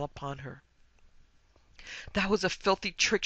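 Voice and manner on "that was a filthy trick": higher, louder, tearful outrage; lightly acted sob of indignation; sobbed complaint. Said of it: "she sobbed".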